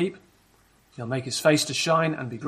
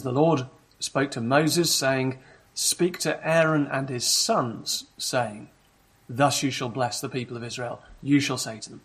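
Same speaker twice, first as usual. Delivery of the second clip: scripture reading. Acted. Preacher reads the blessing to congregation.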